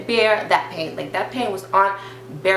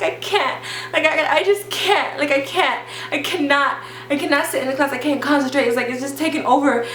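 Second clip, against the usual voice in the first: higher-pitched mock crying plea; tearful retelling; 5 semitones higher than usual. Student telling the nurse she can't sit in class, mock tearful. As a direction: lightly act out tearful desperation. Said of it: "I start crying".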